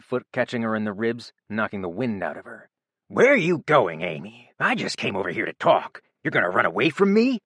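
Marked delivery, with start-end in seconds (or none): 3.1-7.4 angry yell. A narrator's reading. Rob yelling at Amy as she flees, angry. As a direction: shout her down, fast at the end. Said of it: "he yelled".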